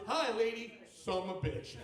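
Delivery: lightly voiced cheeky little kid; sassy three-year-old. Sassy three-year-old addresses the offended woman, mock cheekiness. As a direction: imitate a child greeting with casual sass. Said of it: "a sassy three-year-old who goes".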